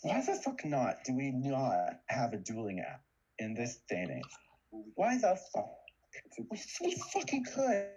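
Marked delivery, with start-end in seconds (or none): 4.9-7.9 excited rant. Acted. Ranting about no dueling app.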